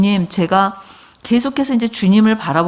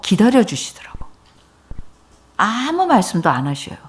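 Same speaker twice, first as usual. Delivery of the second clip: whisper. Real, not acted. Preacher to congregation, whispering that the Lord waited. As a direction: let the line fall into a hush. Quiet sermon moment.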